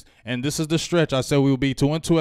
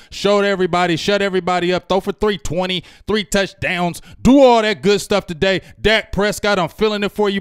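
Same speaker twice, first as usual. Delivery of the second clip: hype rant; 4 semitones higher, 5 dB louder than usual. Real, not acted. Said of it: "you sound like an auctioneer".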